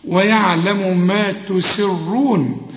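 ويعلم ما تسرون slow, light س, heavy ر; slow model recitation. Shown as a demonstration. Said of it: "هرقق السين وأفخم الراء".

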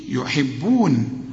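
يحبون slowly with a light ha; clear ha. Shown as a demonstration. Teacher models the word. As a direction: read يحبون without bending the ha. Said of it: "هنا يحيي".

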